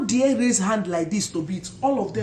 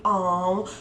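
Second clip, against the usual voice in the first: admiring oh. Retold or imitated. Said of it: "I kept saying".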